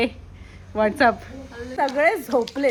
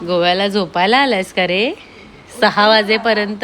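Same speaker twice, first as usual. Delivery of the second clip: loud teasing; 3 semitones lower, 6 dB louder than usual. Real, not acted. Waking a sleeping man.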